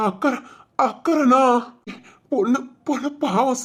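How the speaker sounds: tearful, pitying plea; crying. Acted. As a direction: voice breaking into a sob. Servant breaks down pleading.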